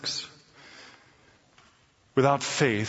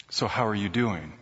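soft, gentle welcoming hostess; softer lightly voiced gracious hostess; beautiful hostess voice; 12 semitones lower, 8 dB quieter than usual. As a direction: greet him like a kind host, softly. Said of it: "most beautiful voice that I've ever heard".

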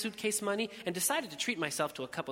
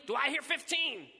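high auctioneer's call for more; 9 semitones higher than usual. A narrator's reading. Willie to the hushed tent, high auctioneer's call. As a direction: coax one more bid from the crowd.

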